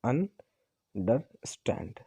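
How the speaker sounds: अंडरस्टैंड very slowly in separate syllables, अन, डर, स्टैंड; अंडरस्टैंड drawn far apart, last syllable stressed. Shown as a demonstration. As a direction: spell out the beats of अंडरस्टैंड with pauses, landing on स्टैंड. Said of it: "एक stress syllable होगा".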